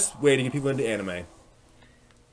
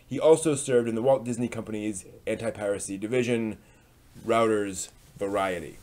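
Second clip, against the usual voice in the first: dramatic reading; 3 semitones higher than usual. Acted. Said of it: "let's do a dramatic reading".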